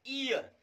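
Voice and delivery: 'ईयर' opening on a pure ee, as in 'ear'; initial 'ee' sound. Shown as a demonstration. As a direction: start 'ईयर' straight on the vowel ee. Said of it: "यहाँ पे ई निकल के आता है".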